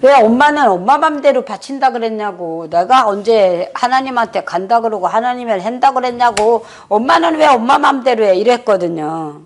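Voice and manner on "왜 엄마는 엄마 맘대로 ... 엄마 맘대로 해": put-on a child demanding why the mother decided alone; child's indignant protest. Son protesting to his mother about her vow, indignant.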